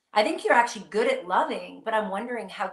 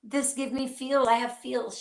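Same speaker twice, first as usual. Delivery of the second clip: higher-pitched quote of a daughter's complaint; imitated complaining daughter; 5 semitones higher than usual. Mother quoting her daughter's famous complaint, lightly imitated. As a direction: lightly imitate a child protesting to Mom. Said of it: "my daughter is so famous for saying".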